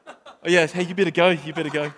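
embarrassed laugh while backing off; sheepish giggling retreat; laughing cover-up. Retold or imitated. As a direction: laugh it off, pushing the kid forward. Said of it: "And I was like".

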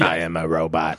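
flat stiff robot voice; toy robot voice. Pretend. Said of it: "replaced by some kind of robot".

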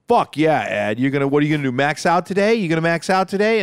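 lightly acted gym-buddy enthusiasm; pumped-up hype. The speaker hyping Ed at the bench, lightly acted enthusiasm. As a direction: egg him on with rising questions.

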